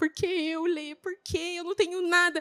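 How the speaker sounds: high, crying, tearful pleading. Retelling a discipleship session with Lenara, imitating own tearful words. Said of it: "eu tava ali me cho-, chorando".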